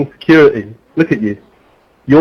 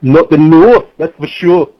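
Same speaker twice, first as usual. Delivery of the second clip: put-on girly voice; 3 semitones higher, slower than usual. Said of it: "Why did you have to talk like a girl".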